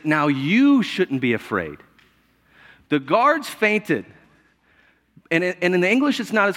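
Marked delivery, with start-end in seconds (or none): 0.0-4.1 slow, calm reassurance; reassuring angel. Retold or imitated. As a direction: gently soothe the frightened women. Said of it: "he says".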